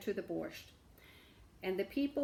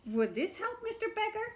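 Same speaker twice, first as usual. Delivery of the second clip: shamus asking; 12 semitones higher than usual. A narrator's reading. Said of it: "he asked".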